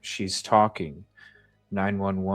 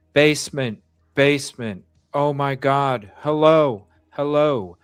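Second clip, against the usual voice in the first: high, loud frantic calls; panicked shouting; 5 semitones higher, 5 dB louder than usual. Retold or imitated. Father screaming on 911 call.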